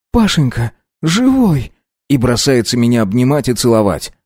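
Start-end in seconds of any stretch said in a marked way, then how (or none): 0.1-1.7 high, choked relief of a weeping mother; mother's tearful joy. A narrator's reading. Mother greets her son she thought dead, tearful relief. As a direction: cry out to your lost son with relief.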